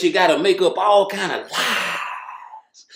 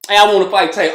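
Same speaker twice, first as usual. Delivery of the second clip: louder, brash "Hey, I wanna fight Tank"; mock call-out; 6 dB louder, faster than usual. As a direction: call him out loudly, like a boxer after a win. Mock boxer calling out Tank.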